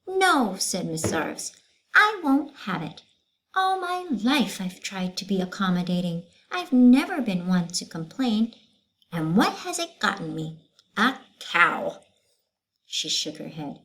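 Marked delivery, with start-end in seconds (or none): 0.1-12.0 stern teacher. Acted. Teacher refusing to continue class, stern. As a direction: lay down the law to the class.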